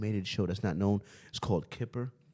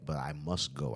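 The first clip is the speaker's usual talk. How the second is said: British accent; 5 semitones lower, 5 dB quieter than usual. Shown as a demonstration. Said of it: "my British accent".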